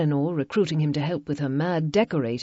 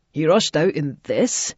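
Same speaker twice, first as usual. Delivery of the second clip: 1 demanding; 4 dB louder than usual. A narrator's reading. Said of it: "Mac demanded".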